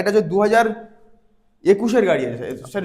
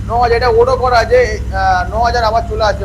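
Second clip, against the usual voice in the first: raised voice; 5 dB louder than usual. Real, not acted. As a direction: spell it out above the noise. Talking over a running engine. (ইঞ্জিনের শব্দে ধীরে, গলা চড়িয়ে)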